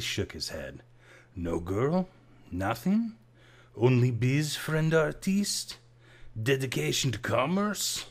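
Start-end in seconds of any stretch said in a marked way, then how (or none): 1.4-8.1 high, loud mocking barman voice; teasing barman. A narrator's reading. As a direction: needle him like an old bartender friend. Rats teases Case at bar.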